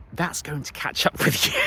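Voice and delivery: words giving way to a high squealed laugh; breaking into laughter. Real, not acted. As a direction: let the last word burst into a high laugh. Amused thought, breaks into laughter.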